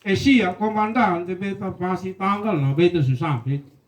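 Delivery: heavy Rote dialect, eager soldier; a mild Rote accent replying to the commander; thick Rote accent. Retold or imitated. Soldier promises his commander in a Rote accent. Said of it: "logat Rotenya kental sekali".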